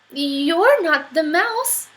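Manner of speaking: put-on drawn-out curious child; puzzled child. Child questions fox.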